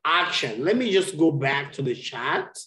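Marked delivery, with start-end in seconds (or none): 0.0-0.6 "Action" with emphasis on AC; stress on first syllable. Shown as a demonstration. Teacher giving an example of stress, first syllable stressed. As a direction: hit AC, let the rest of "Action" fall. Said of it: "what we call in English a stress".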